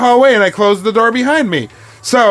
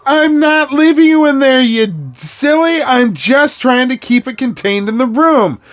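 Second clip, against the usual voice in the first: raised-voice retold protest; mild mock scream; 4 semitones higher than usual. Partner calling back through the door, mild mock yell. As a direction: call it back with mild exasperation. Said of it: "as I was screaming back at you".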